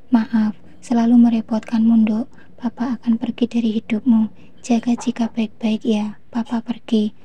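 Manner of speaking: a hint of tears as he says goodbye; tearful farewell. Father bids his daughter-in-law farewell, understated tearful voice. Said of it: "ucap Papa menitikan air mata".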